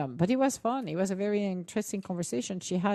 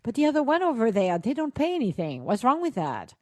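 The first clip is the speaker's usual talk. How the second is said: higher, louder mock outrage, voice jumping up on people; hammed-up indignation, peaking high on people; exasperated rant; 8 semitones higher, 6 dB louder than usual. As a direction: playfully complain about the unfair phone fees. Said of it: "I'm like".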